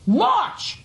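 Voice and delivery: jumps up high on the word, pouncing on the answer; a sharp, high, incredulous March; surprised exclamation. Real, not acted. Judge pouncing on the witness's answer, startled and sharp.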